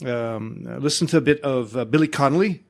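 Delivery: Welsh, Scottish and Irish mixture; put-on Scottish-leaning Celtic lilt for a wizard; mixed Celtic accent. Shown as a demonstration. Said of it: "it is Scottish as opposed to being English or Irish".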